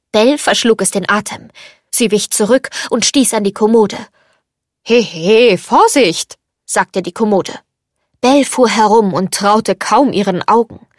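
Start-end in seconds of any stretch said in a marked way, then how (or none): 4.8-6.4 louder character voice of a bumped dresser; indignant warning. A narrator's reading. Dresser warns the girl who bumped into it, indignant. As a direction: call out a startled caution.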